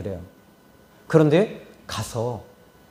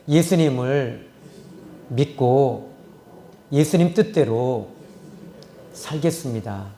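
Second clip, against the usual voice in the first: leading a prayer. Shown as a demonstration. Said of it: "같이 따라해 볼까요".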